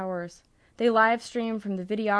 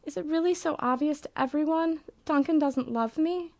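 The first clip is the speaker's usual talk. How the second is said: tearful; 7 semitones higher than usual. Acted. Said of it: "Swanee begins to cry".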